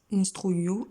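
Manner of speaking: "Instruyo" with the weight on the last O; "Instruyo" as a model word, stressed at the end; stress on final O. Shown as a demonstration. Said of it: "donc c'est accent sur le O".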